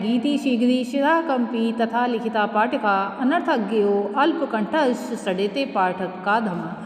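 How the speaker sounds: Sanskrit verse recitation. Acted.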